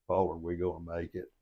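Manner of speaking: mildly solemn retold question. Brother to the captain in a swamped boat, mildly solemn. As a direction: imitate a brother asking very solemnly. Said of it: "he very solemnly said".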